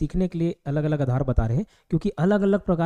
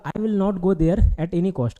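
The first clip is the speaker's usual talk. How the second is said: slow dictation; much slower than usual. Shown as a demonstration. Teacher reads direct speech example.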